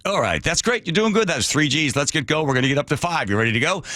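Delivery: pilot voice. Retold or imitated. Pilot encouraging passenger.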